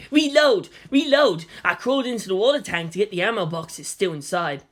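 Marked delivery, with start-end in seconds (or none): 0.1-1.4 shouting. Retold or imitated. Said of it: "So Kensuke was like".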